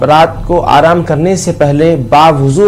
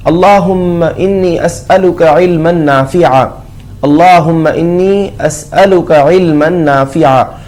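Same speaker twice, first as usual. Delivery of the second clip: prayer recitation. Real, not acted. (धीमी दुआ की तिलावत)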